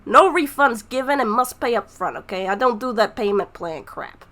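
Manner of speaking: big booming shopkeeper greeting; booming shop voice. Acted. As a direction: boom it out like a shop announcement. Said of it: "you are greeted with a booming voice".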